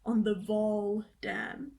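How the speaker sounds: Vaal said slow and flat like "vol"; friend's English pronunciation. Retold or imitated. Imitating her English friend saying Vaal Dam slowly. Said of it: "my friend was like".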